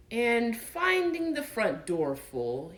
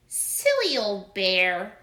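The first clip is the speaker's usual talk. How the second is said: loving; 5 dB louder, slower than usual. Acted. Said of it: "in such a loving voice".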